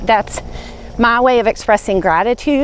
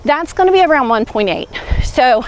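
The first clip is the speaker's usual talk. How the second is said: audible breathing. Real, not acted. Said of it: "you can hear me breathing".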